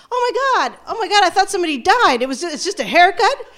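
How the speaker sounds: high, rising disbelief, imitating the friend; shocked friend. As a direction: play the friend, stunned it's only a haircut. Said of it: "She's like".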